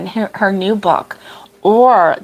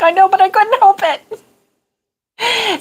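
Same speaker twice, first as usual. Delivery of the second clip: high, slow, sheepish whine of an excuse; whiny excuse; 11 semitones higher, much slower than usual. Retold or imitated. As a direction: plead like a caught kid, dragging it out. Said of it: "And I'm like".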